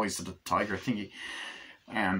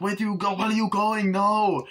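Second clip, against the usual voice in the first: mock dismay; 11 semitones higher, 4 dB louder than usual. Left behind as car drives off.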